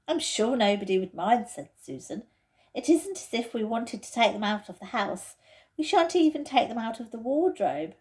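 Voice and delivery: Susan's voice. Acted. Susan, cramped in the wardrobe, complains impatiently. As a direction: voice a fidgety girl stuck in a wardrobe.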